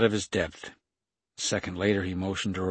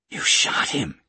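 louder, narrated outraged yell; 5 dB louder than usual. A narrator's reading. Kate to the gunman after the shot, restrained yell. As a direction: yell it in shock, kept contained. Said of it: "Kate yelled".

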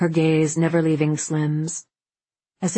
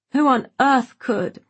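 high scandalised gossip; 7 semitones higher, 3 dB louder than usual. Acted. Tipsy Gloria, scandalised.

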